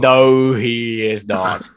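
slow, deliberate rebuttal; emphatic contradiction. Real, not acted. Football fan rejecting friend's praise of a defender, firm contradiction. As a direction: draw it out, firmly disagreeing.

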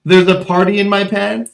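a playful put-on sleazy voice; mock flirty line. Host jokes cohost flirts with guards, hammed-up.

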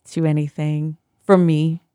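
Zen voice. Acted. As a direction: soothe them like a meditation guide. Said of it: "I was talking in my Zen voice".

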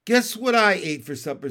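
loud, lightly voiced taunting frog; teasing bullfrog voice; raspy bullfrog. A narrator's reading. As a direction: tease with a hint of rasp. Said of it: "in his raspy voice".

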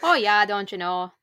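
playful put-on Minnesota accent; folksy Minnesota impression. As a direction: do a mock Minnesotan with long round O's. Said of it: "Up in here in Minnesota".

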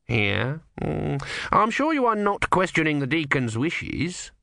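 a hint of a veiled threat; stern reproach. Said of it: "said Numrod".

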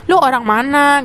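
mock a nosy, judging local; judgmental questioning. Taiwanese local quizzing a foreigner, mock judgmental. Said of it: "penuh dengan kayak judgmental banget".

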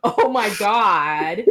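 high, loud, slow and laughing, muffled by a towel; mock scream into a towel. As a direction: squeal it out through laughter, half-hammed. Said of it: "I'm screaming".

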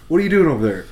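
quoting Pappy's puzzled question with a laugh; mock puzzled quote. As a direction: ask it deadpan, a laugh leaking in. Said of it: "and he goes".

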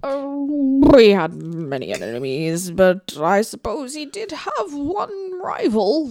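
drawn-out grand officer; Nigel Thornberry. Acted. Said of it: "channeling my inner Nigel Thornberry".

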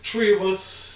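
"three" said as tree, hard t for th; ignorant pronunciation. Shown as a demonstration. Giving friends an example, "three" pronounced tree. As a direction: run it together as "tree of us", no th in "three". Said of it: "like, tree for three".

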